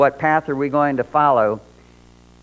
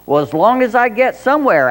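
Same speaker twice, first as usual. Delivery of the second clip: Alice voice; 8 semitones higher, 4 dB louder than usual. Acted. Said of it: "Alice added".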